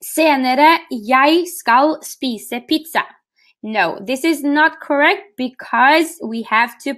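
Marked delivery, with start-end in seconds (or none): 0.0-3.0 each word laid out slowly for the class; slow, deliberate wrong version. Shown as a demonstration. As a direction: read the wrong sentence slowly, like a test. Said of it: "Is this correct?".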